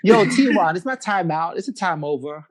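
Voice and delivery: mock-American slangy protest; American accent. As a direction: call time-out in a playful American accent. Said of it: "in your best American accent".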